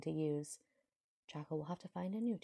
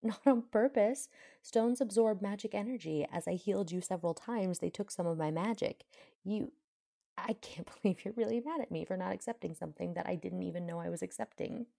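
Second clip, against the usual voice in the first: loud, raised-pitch indignant protest; 3 semitones higher, 5 dB louder than usual. Acted. Healer protesting to the man who is mad at her, indignant. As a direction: argue back hotly, pushing the key words louder. Acted quarrel, she defends herself.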